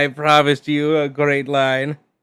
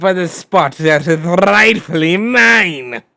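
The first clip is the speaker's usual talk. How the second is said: evil villain voice. Acted. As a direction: sneer it like a scheming villain. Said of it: "my evil villain voice".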